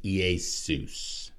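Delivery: "Iesus" said slowly as yay-SOOS; Greek pronunciation. Shown as a demonstration. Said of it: "anglicized from the Greek".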